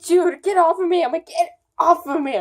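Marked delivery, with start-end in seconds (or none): 0.0-1.0 higher, louder mock outburst; retold protest. Girl telling boy to stop kissing her, retold loud protest. Retelling pushing away a kiss. 1.3-2.3 high-pitched mock outburst; retold protest. Girl repeats it to the boy kissing her, retold protest. Retelling pushing away a kiss.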